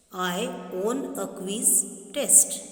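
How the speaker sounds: slow, stressing own; slow read. Shown as a demonstration. Teacher reading a wrong sentence slowly. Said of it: "This is wrong".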